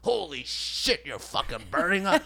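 breathy, slow holy shit whispered; hushed surprise. Retold or imitated. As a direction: gasp it out in a hush. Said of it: "It's like".

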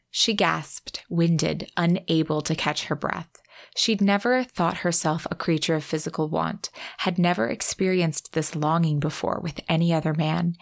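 even, measured romance narration; book narration. Acted. Podcaster reads the fireworks kiss passage, measured narration. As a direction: read the passage aloud, pausing between phrases. Reads novel excerpt aloud.

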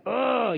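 exasperated "ugh", acted out; irritated groan. Preacher imitating Paul fed up with the spirit, irritated groan. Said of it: "He gets irritated".

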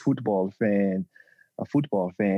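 attempted British accent sounding Eastern European; bad British accent. Guest tries British "football", unconvincing British accent. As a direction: try a British accent and miss. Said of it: "You sound Eu-, Eastern European".

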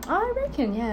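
easy Aussie agreement; Australian accent. Shown as a demonstration. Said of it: "オーストラリアっぽい".

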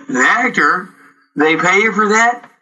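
high, wide-eyed disbelief; a boy who can't believe it; astonished child asking; amazed kid. Retold or imitated.

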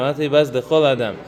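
"baz lechol adam" rattled off fast; brisk aside repeating the verse; quick restatement. Shown as a demonstration. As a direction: toss off the corrected wording quickly. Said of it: "very famous, passage in Pirkei Avot".

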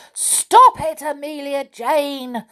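shouting angrily at the doll; angry shout. A narrator's reading. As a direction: yell it out, fed up and cross. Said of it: "shouted the Clockwork Clown angrily".

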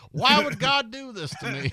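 high, loud mock plea to heaven; hammed-up high cry of why me; mock anguished wail. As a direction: whine it up at God, hammed-up. Mocking a cancer patient's lament.

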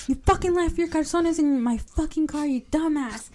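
exasperated, high-pitched telling-off; mock indignant. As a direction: imitate a friend chewing you out. Retold friend angrily calling him out.

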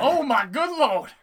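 loud, high, drawn-out exclamation; slow, hammed-up appalled cry; mock horror. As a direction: wail it in exaggerated shock. Joins in acted shocked reaction.

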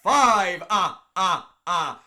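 can't stop laughing mid-sentence. Real, not acted. Laughing through intro.

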